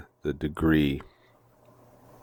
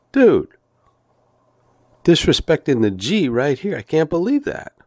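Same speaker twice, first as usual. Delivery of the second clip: higher, louder hammed-up indignation; mock outrage; 10 semitones higher, 4 dB louder than usual. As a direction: play up the fake offense at the attendant.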